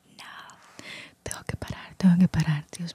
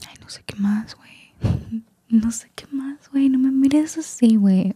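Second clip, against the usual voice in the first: attempted Mexican accent; 6 semitones higher than usual. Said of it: "quise intentar hacer este acento mexicano".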